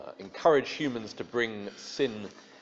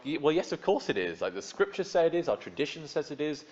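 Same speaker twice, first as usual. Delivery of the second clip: indignant protest; 6 semitones higher than usual. Retold or imitated. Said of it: "we want to respond like".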